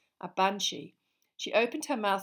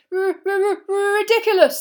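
high, loud, panicky stutter; frightened boy's high-pitched shout; stammered squeal; 13 semitones higher, 15 dB louder than usual. A narrator's reading. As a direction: stammer on the first sound, then squeal it out. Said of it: "squealed Neville".

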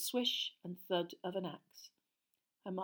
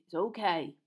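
soft; 4 dB louder than usual. Acted. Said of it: "said Hagrid softly".

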